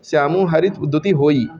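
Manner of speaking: slow, measured verse recital; poem recitation. Acted. Teacher reciting a soratha to students, slow and measured. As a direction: chant the lines steadily for the class to learn.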